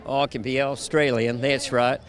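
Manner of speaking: low, lightly put-on Australian; Australian accent. Actor answering interviewer's dare, mock Australian accent. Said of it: "are you listening to dialects".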